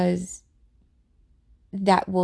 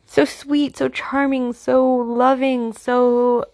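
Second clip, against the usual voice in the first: higher, sugary, syrupy sweet; 5 semitones higher, 4 dB louder, slower than usual. Retold or imitated. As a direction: lay on the fake charm. Mimics narcissist's charming facade.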